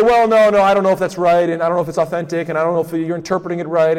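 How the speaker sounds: a hint of a defensive brother; mock stubborn objector. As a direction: imitate someone waving off the evidence. Mocking dismissive objector.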